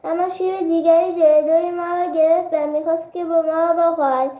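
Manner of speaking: a frightened little rabbit pleading half in tears; tearful plea. Acted. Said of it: "با گریه گفت".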